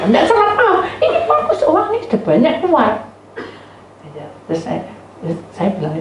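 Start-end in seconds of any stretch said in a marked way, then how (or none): 0.1-2.9 high-pitched indignant telling-off; angry outburst. Retold or imitated. Complainant rejects the apology, high indignant outburst. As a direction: raise the pitch sharply and scold.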